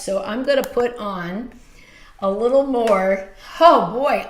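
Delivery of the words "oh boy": loud, higher startled exclamation; surprised. Real, not acted. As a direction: blurt it out, caught off guard. Startled by her shiny face.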